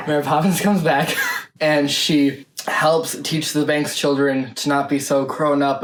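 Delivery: talking with a numb mouth. Real, not acted. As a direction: lips numb from hot sauce. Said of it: "Oh, my mouth is numb".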